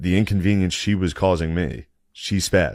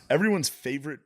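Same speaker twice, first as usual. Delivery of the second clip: lilting announcer-style plug; sponsor ad read; 5 semitones higher than usual. Acted. Host plugging the episode's sponsor, sponsor ad read. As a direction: read the sponsor line, pitch lifted, stumbling. Reads sponsor spot, breaks up.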